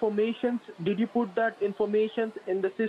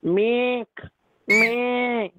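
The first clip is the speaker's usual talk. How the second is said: mock scream; 2 semitones higher, 6 dB louder than usual. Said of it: "If you're gonna scream like this".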